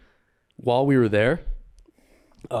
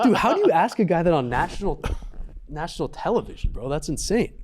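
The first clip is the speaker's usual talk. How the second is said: laughing disbelief; 5 semitones higher than usual. Retold or imitated. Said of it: "I'm like".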